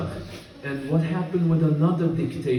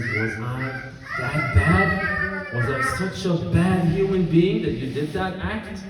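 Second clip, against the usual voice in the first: pained plea; 5 semitones higher than usual. Acted. Imam Ali asks killer, voice breaking.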